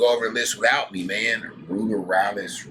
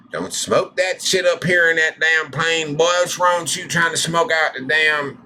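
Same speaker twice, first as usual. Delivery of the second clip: higher, louder mock scolding; 8 semitones higher, 6 dB louder than usual. Vlogger scolding an airman smoking in a plane, mock anger. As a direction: scold him like a fed-up sergeant.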